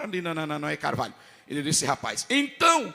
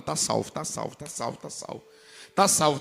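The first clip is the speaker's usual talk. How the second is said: echoing memory; 4 semitones lower than usual. Retold or imitated. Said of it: "aquele pastor falando".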